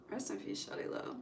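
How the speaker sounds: whispered rest in peace; soft whispered respects; hushed tribute. Real, not acted. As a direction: breathe it out like a quiet tribute. Hushed tribute to dead rapper.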